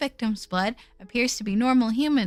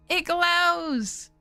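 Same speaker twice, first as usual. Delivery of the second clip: excited; 4 semitones higher than usual. Real, not acted. Repeat of discovery.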